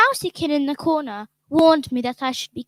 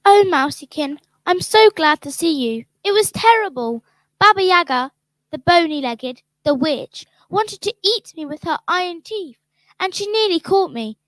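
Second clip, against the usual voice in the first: excited relief; 4 dB louder than usual. Acted. Girl tells of narrow escape.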